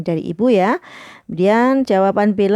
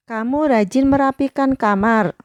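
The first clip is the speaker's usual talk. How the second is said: higher-toned model praise sentence; high praise intonation; 5 semitones higher than usual. Shown as a demonstration. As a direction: praise read out in a higher pitch. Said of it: "kalimat pujian itu dengan intonasi yang nada tinggi".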